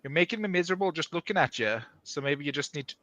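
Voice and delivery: loose, unconvincing Australian; failed Australian accent. Acted. Reluctant reader performing a friend's dialogue, failed Australian accent. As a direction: try Australian and miss a little. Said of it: "that was not Australian at all".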